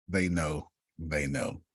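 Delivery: fading tease. Real, not acted. Teasing repeat fading out.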